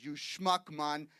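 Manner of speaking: lightly voiced West Indian accent, telling him off; mock indignation in a West Indian accent; imitated West Indian wife. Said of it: "She looked at me and she says".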